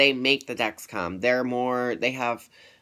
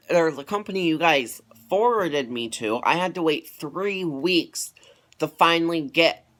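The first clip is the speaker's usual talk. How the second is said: snappy complaint; 5 semitones higher than usual. Retold or imitated. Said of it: "getting snappy with you".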